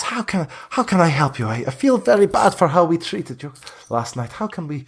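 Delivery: Vistani leader apologizing. Acted. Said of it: "She says".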